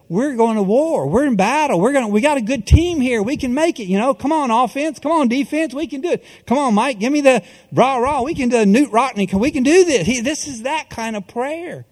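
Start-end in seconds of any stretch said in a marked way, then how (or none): 0.1-10.1 fired-up locker room rally, pitched up; rally the team like a coach before the game; coach pep talk. Pretend.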